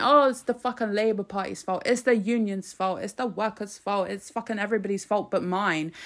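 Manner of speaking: lightly imitated whiny blame-shifting; a mild mock whinge, passing the blame; mock whining. Commentator mimicking a minister blaming everyone else, mild mock whining. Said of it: "he's whining. He's saying".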